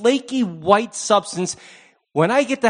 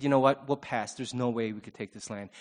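timid backing out; 8 semitones lower, 10 dB quieter than usual. Retold or imitated. Fearful Israelites voiced quietly.

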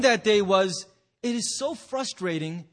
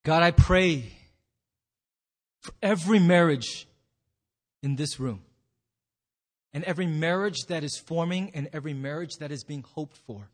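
measured, lower prayer with long pauses; leading prayer; 4 semitones lower than usual. Real, not acted. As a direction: pray aloud for the congregation, unhurried. Leads the congregation in prayer.

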